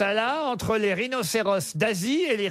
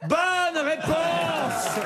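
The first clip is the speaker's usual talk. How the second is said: drawn-out, much higher game-show cheer; excited shout; 8 semitones higher, much slower than usual. Real, not acted. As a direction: stretch it out like a quiz host. Host announces the answer is right.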